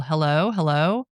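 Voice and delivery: a lightly imitated woman calling at the door; drawn-out mock call to see who's there. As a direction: call a slow, questioning hello, lightly acted. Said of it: "hear a woman's voice call".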